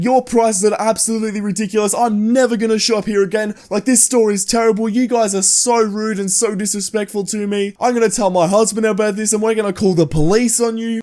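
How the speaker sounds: high-pitched mock tirade; freaking-out Karen. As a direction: imitate an irate customer threatening the staff. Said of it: "she starts freaking out at Jordan".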